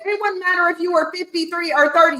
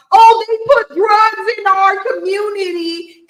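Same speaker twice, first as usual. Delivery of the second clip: mocking quote; 3 semitones higher, 5 dB louder than usual. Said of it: "keep talking about".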